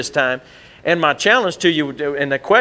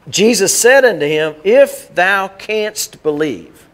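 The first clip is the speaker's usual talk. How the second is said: King James reading; 4 semitones higher, 4 dB louder, slower than usual. Shown as a demonstration. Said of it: "we don't talk like that".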